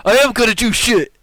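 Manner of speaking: loud, high-pitched indignant shout; defiant retort. Acted. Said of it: "this time you hear".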